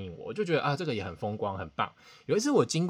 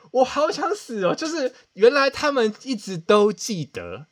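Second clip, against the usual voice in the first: slow, loud, high mortified wail; 10 semitones higher, 8 dB louder, slower than usual. Real, not acted. Telling viewers the kids still remember, mortified. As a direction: drag the words out in embarrassed despair.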